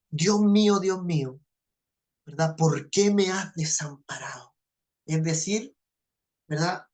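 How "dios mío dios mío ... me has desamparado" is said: un toque de asombro, "Dios mío" inicial más fuerte; asombro contenido. Retold or imitated. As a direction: clama "Dios mío" con asombro sobrio, sin gritar. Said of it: "expresa esta, digamos, este asombro". (asombro sereno ante el amor de Dios)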